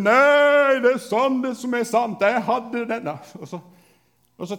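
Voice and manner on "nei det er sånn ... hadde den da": loud, high bellowed claim; a child roaring to win at dodgeball; bellowing. Retold or imitated. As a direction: roar it to win the argument. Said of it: "Så jeg brølte".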